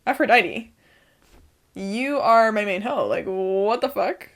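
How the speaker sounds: loud, thrilled gushing that trails off; retold excitement. Talking to Aphrodite, a retold loud gush. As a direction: gush at Aphrodite, then deflate. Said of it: "and then I was like".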